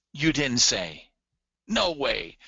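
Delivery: playful mock disbelief; hammed-up amazement, lifting at the end; acted excitement. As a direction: act out an excited listener's reaction. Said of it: "what someone who's excited may be saying".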